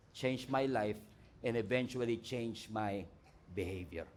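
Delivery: soft, low confessional prayer; humble prayer. Acted. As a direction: pray it quietly and broken. Model prayer voiced softly.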